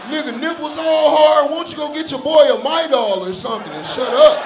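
high, loud young boy mocking; squeaky teen taunting; little boy voice. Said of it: "little boy voice".

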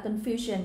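"confusion" stressed on FU; second-syllable stress. Shown as a demonstration. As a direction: hit the middle syllable of "confusion". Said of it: "on the second syllable". (nhấn âm hai trong "confusion")

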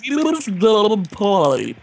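underwater voice. Pretend. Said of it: "Shut your aquatic mouth".

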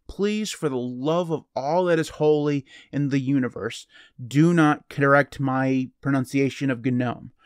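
emphatic, drawn-out comic begging; mock-exasperated plea. Real, not acted. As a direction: plead with deliberate, weighty emphasis. Mock plea against pronunciation corrections.

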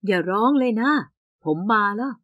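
low soft reassurance; soft comforting. Acted. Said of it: "เขาพูดด้วยเสียงนุ่ม".

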